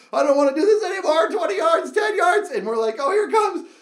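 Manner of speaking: loud high countdown in fear; rising panic. Retold or imitated. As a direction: build the dread toward the drop. Dread counting down yards.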